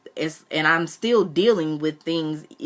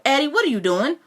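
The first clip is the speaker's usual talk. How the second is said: much higher, alarmed cry; shocked Granny; 10 semitones higher than usual. Acted. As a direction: burst in horrified.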